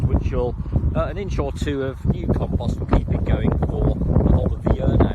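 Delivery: projecting loudly against the wind; shouting over wind. Real, not acted. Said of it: "hopefully you can hear me over the wind".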